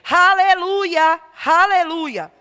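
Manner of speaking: slow, loud, stretched aleluia; drawn-out aleluia. Real, not acted. Preacher crying out in praise, slow and loud. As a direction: proclaim it slowly with force.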